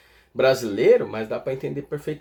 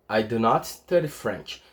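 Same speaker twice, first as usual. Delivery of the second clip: slow, careful English model sentence; teacher's slow demonstration; slow model repeat; 4 semitones lower, slower than usual. Shown as a demonstration. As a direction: say it slowly for students to copy. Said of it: "demo repeat".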